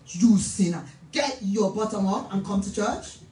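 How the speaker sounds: low, stern scolding; no-nonsense African auntie telling-off; hard African woman. Acted. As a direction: come down hard on a sinner. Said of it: "I come very hard like an African woman".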